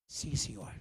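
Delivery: very low, very soft yes sir; meek submission. Retold or imitated. Young believer answering his leader with a hushed, obedient sir. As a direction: swallow the anger and answer meekly.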